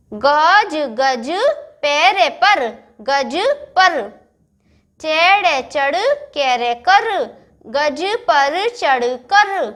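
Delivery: गे जे then गज, each syllable drawn out slowly; slow syllable reading. Shown as a demonstration. Teacher reading गज तक चल syllable by syllable. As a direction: blend letters into words very slowly. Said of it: "मैं क्या पढ़ रही हूँ, आपको भी ऐसे ही पढ़ना है".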